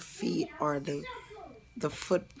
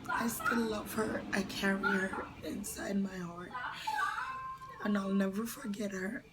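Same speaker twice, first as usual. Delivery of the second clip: holding back tears while speaking; tearful voice; 4 semitones higher than usual. Real, not acted. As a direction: voice close to tears, pitch up. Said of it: "hard for me to talk about her and keep a straight face".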